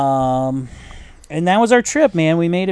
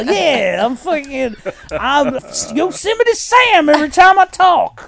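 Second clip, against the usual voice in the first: mock defiant; 8 semitones higher, 3 dB louder than usual. Retelling his own defiant reply.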